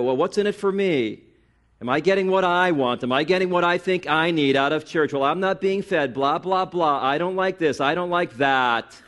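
mock a self-centred consumer's complaints; mock complaining. Mimics self-centred churchgoer complaining.

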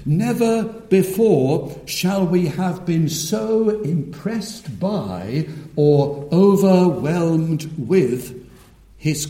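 strong opening, slowing to a hushed close; solemn preaching. Real, not acted. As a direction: roll out the titles in stately cadence, then draw out each phrase. Preaching titles of Christ.

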